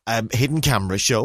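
high, indignant mock outrage; hammed-up affronted shopper; frowny outrage. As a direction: act offended, as if it's a prank. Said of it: "in this kind of frowny sort of".

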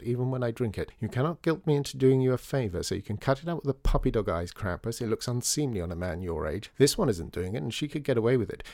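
lightly voiced sharp-tongued columnist; sharp journalist. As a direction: Maddie scoffing at children, lightly voiced. Maddie keeps her voice.

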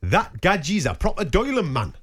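slow, deliberate Geordie; drawn-out North East English lilt; Geordie accent. Shown as a demonstration. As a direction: put on a Newcastle accent, word by word. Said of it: "I'll do it in the accent".

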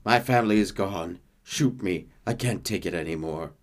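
falling, fading weary plea; a hint of giving up on life; despairing Sasquatch.

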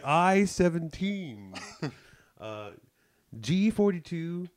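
slow drawn-out number calls; bingo caller. Retold or imitated. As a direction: call the numbers like a bored caller. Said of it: "he'll be like".

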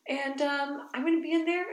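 name feelings like a patient mom; mild parent explaining; calm parent voice. Retold or imitated. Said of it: "I was like".

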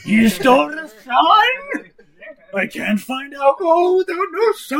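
put-on slow, loud drunk accusation; drunk angry shout. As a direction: bellow it like a drunk dwarf. Drunk dwarf accuses loudly.

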